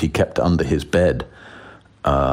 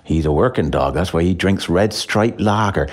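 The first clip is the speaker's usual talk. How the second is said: put-on West Country accent. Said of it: "doing West Country accents".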